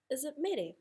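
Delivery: "Is it mere?" pitched high, doubtful; high questioning "Is it mere?"; questioning tune. Shown as a demonstration. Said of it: "that's just in my expression".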